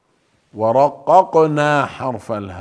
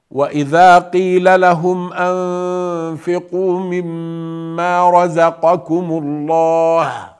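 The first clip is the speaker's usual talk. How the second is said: melodic tajweed chant; Quranic recitation; 3 semitones higher than usual. Shown as a demonstration. Teacher reciting the verse to students, melodic chant. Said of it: "teacher reciting verse".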